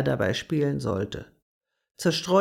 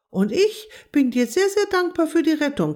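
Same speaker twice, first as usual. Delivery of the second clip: high, loud grateful frog voice; croaking frog; 10 semitones higher, 4 dB louder than usual. A narrator's reading. Rescued frog thanks Agathe, much higher, louder croaky voice. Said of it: "quakte Quappi".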